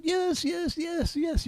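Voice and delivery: high eager crowd answer; lightly voiced crowd shouting yes; crowd calling back. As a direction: voice the cheering crowd from below.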